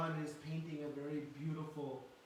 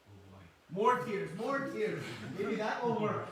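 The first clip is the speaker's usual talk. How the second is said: put-on scheming child Krishna; 5 semitones higher, 9 dB louder than usual. Voicing child Krishna forcing tears.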